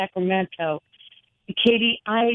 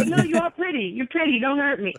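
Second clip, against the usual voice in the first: higher mock-scared plea; mock fear; 6 semitones higher than usual. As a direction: tease him pretending to be scared. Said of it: "I go".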